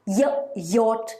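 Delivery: "Y" said as a short "yuh", then "yacht"; consonant Y sound. Shown as a demonstration. Teacher showing the sound Y makes, phonics demo. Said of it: "the letter Y is making the Y sound".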